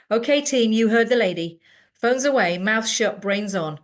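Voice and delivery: hammed-up coach rallying the team; mock team leader. Boy mocking a coach to his group, bossy.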